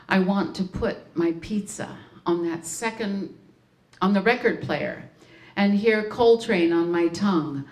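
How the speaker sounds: measured poetry recital with falling line ends; poem reading. Acted. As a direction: read a playful poem to an audience, phrase by phrase. Reads a poem aloud.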